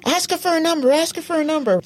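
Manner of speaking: high, pressing repeated push; egging the guy on from the side; urgent prompting. Retold or imitated. Eric Andre urging the guy to ask her number, pressing. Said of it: "Eric Andre's like".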